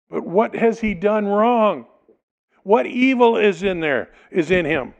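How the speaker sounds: Pilate pleading. Acted. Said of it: "Pilate pleaded".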